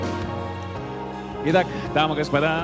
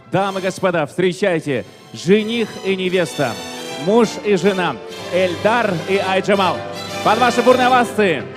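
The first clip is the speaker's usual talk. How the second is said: ringmaster; 3 semitones higher, 7 dB louder than usual. Acted. Host announcing bride and groom.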